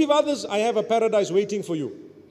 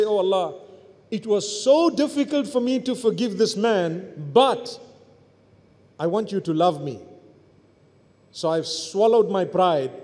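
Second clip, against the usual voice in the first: humble plea; 4 semitones lower than usual. Pretend. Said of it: "So you say".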